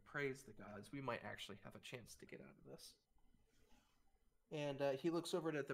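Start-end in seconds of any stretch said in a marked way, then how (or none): 0.1-2.9 relieved sigh. Acted. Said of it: "takes a deep sigh, has a smile".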